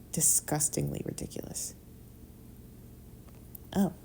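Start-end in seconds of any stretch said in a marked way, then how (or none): 0.1-1.7 soft whispered disgust; barely voiced, worn out. Whispering disgust about her wasted time. Weary self-pity late at night.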